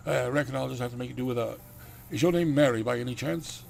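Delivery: put-on country Dracula accent; courtly Dracula with a country accent. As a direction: ask politely in a hammy Dracula accent. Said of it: "I'm sticking with the accent I gave him".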